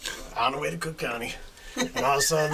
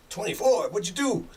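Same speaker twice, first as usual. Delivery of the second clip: high-pitched imitated disbelief; surprised retold questions, pitched up; astonished questioning; 9 semitones higher than usual. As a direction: balk at the huge figure. Prisoner reacts to huge bail.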